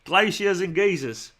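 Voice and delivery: slow, drawn-out film title read; Guy Ritchie film. Acted. Streamer trying out a joke film title, mock film-title voice. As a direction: announce the title slowly, savouring it. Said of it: "sounds like a Guy Ritchie film".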